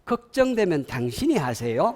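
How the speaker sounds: mock-polite brush-off as the wife; lightly acted wifely comeback; acted snippy retort. Wife answering husband's advice about dishes, lightly snippy. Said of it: "아마 이렇게 얘기할 것 같아".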